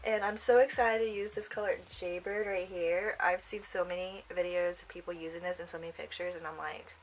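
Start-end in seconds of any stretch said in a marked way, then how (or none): none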